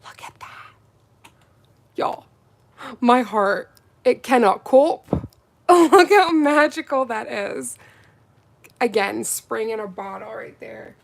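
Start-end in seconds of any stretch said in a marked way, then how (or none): 0.0-1.3 breathy awed whisper; hushed in awe. Real, not acted. 3.0-7.8 loud, thrilled gush; excited gushing. Real, not acted. Gushing over polish color.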